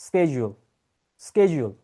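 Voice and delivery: schedule said as SKED-jool, starting with a hard sk; teacher demo of schedule with sk; American schedule. Shown as a demonstration. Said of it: "right way to pronounce this word would be".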